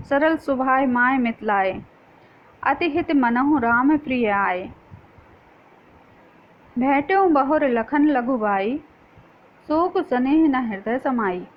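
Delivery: slow, measured devotional verse reading; Ramayana verse recitation. Acted. Ramayana being read aloud within the play, measured verse recitation. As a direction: recite the verse slowly, line by line.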